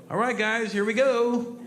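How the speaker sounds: high called-out announcement; crewman's heads-up. Retold or imitated. Crewman warning passengers before landing, high rallying call. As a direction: call the guys to get ready. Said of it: "right before we land and go".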